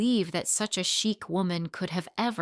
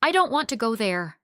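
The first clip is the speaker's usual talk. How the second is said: raised, louder protest; old man refusing to go in, raised protest; resisting protest; 4 semitones higher, 5 dB louder than usual. Acted. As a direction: push back hard against them. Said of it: "resisted with all his might".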